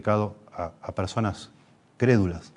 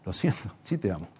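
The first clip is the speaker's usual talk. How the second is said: calm firm parent; 3 semitones lower, 6 dB quieter than usual. Retold or imitated.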